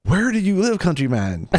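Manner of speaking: high, loud, hammed-up frustration; exasperated mock question. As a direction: demand it in mock despair, starting high. Acted exasperated question to the man.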